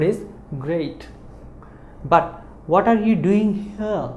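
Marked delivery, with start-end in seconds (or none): 2.0-4.1 But what are you doing here, said slowly and higher, the r in are not pronounced; slow model reading. Shown as a demonstration. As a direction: read it slowly and clearly, without the r. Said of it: "R is silent".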